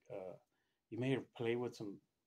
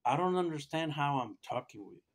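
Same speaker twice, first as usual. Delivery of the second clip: imitating an adamant doctor, louder and higher; 4 semitones higher, 5 dB louder than usual. Doctor retold to listeners, baffled by the talking patient, adamant. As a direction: insist on your disbelief as the doctor did. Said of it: "he was pretty adamant about".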